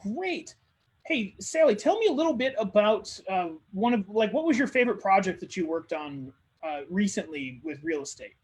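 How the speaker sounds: lifted, keen asking voice; eager questioner. Acted. Networker eagerly asking Sally about her work. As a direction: sound genuinely interested in her.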